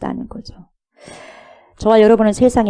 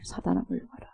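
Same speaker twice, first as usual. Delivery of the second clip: hushed rebuke; 13 dB quieter than usual. Retold or imitated. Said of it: "사단이라고 그러잖아요".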